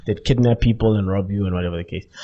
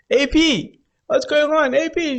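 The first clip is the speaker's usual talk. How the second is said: light questioning call; 13 semitones higher, slower than usual. Retold or imitated. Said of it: "I'm like".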